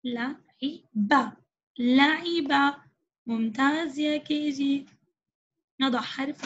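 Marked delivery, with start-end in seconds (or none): 0.0-2.8 stretched syllable by syllable; slow blending. Shown as a demonstration. Teacher sounding out لعب slowly for the class. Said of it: "دعونا نرى".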